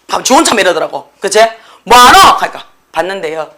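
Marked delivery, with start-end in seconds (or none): 1.8-2.2 loud mock scolding question; sudden, forceful challenge; challenging call. Acts teacher challenging the daydreamer. 2.9-3.5 low, soft student excuse; small, subdued mock reply; meek reply. Acts the caught student's meek reply.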